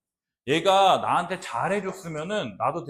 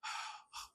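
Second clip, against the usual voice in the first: patient breathy sighs; 21 dB quieter, much slower than usual. Retold or imitated. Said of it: "그냥 잘 참고 인내하고".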